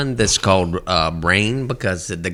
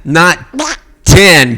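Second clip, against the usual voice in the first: Donald Duck voice; 6 semitones higher, 8 dB louder than usual. Shown as a demonstration. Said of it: "I can't say ten".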